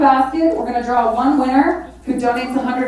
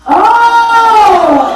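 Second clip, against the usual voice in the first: loud, high burst of surprise; surprised oh; 8 semitones higher, 6 dB louder than usual. Real, not acted. Surprised by a new bid.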